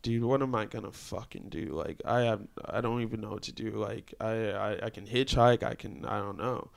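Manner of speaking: quietly re-enacted dismay; retold helplessness. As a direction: let it sink as if stranded. Retold stranded, at a loss.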